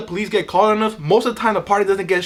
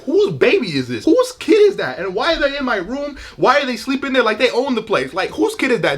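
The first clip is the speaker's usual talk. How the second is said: mock surprised; 4 semitones higher than usual. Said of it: "you're like".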